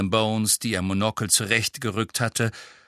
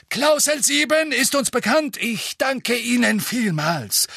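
growling; 12 semitones higher, 3 dB louder than usual. A narrator's reading. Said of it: "knurrte Fudge".

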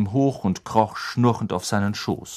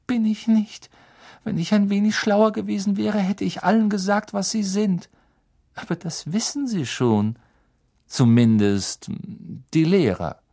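a higher, quick schoolgirl voice; lightly voiced girl; 10 semitones higher than usual. Student answers her teacher in a higher girl's voice. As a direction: answer earnestly as the clever student.

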